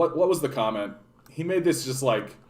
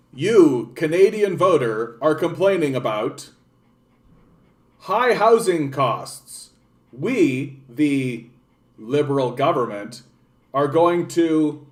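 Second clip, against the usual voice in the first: pompous politician; slower than usual. Retold or imitated. Streamer mocks the Liberal government addressing voters, pompous announcement. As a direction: announce it like a stiff official.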